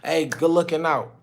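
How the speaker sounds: loud, high, hyped-up street greeting; casual client greeting. Retold or imitated. Inner-city client thanking his host, hyped casual slang. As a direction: greet the host like an old homie. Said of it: "they talk like".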